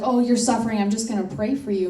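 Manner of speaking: loud, breezy mock sympathy; hammed-up hollow pity; dismissive mock sympathy. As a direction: brush them off with a cheap promise to pray. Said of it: "sometimes people are like".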